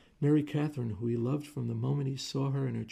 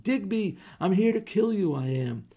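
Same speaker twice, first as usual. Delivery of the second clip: furious shouting; 9 semitones higher, 8 dB louder than usual. Acted. Husband shouting threats from stage.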